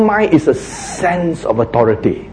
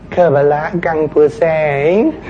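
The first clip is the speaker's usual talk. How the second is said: sing-song command; 3 dB quieter, slower than usual. Shown as a demonstration. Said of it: "is he singing or what?".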